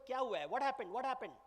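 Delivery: mildly flustered questioning; lightly acted confusion; very confused. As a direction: ask in bewilderment. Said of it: "She's very confused".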